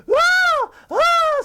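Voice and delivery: repeated piercing high screams; cartoon scream. SpongeBob will not stop screaming, cartoon scream. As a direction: keep screaming in hammed-up terror. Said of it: "It's still going on".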